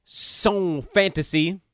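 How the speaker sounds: put-on slow, hammy French accent. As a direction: drawl it out in a bad French accent. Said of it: "How do you like that for a terrible French accent?".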